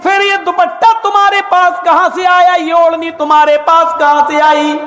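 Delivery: a husband gently but firmly asking about the scarf; questioning husband. Retold or imitated.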